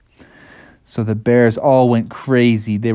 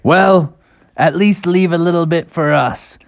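raised, put-on adult bear voice; grown-up bears; 5 semitones higher than usual. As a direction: plead for a share as a cartoon parent. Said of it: "the adults were like".

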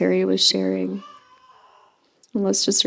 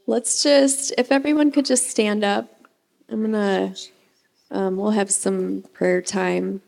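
sweet patient sunday school. Real, not acted. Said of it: "I sound like a Sunday school teacher".

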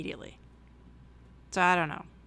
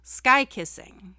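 slow, louder quote of a talking bird; imitating pet bird; 4 semitones higher, 8 dB louder, much slower than usual. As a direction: lightly mimic the bird, drawn out and loud. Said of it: "he mixes up his words and he says".

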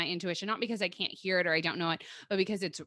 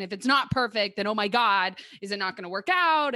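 louder, worked-up mock worry; mock panic; 6 dB louder than usual. Voicing people who idolize relationships, mock panic. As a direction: play up the spiraling worry. Mimics anxious spiraling about relationships.

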